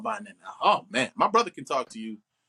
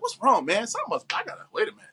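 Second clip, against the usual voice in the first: higher-pitched, agitated retelling of snapping; mock snapping; 6 semitones higher than usual. Actor retelling snapping on a bad day, mock agitated. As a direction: imitate being short with someone. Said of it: "you snap at somebody".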